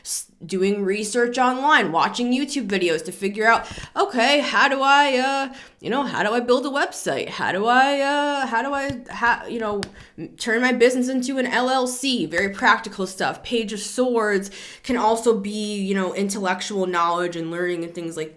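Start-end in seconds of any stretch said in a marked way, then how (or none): 4.0-12.3 searcher's inner voice. Retold or imitated. Voicing a searcher's questions.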